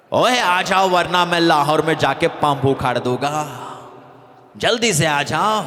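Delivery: lightly voiced gruff film villain threat; a hint of a menacing Bollywood villain ordering them up; Amrish Puri impression. Host mock-threatens ladies to come on stage, light villain voice. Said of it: "वरना अमरीश पुरी नाराज हो जाएगा".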